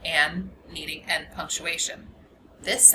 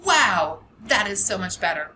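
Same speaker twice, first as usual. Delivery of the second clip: excited; 6 dB louder than usual. Shown as a demonstration. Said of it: "It means we're excited about something".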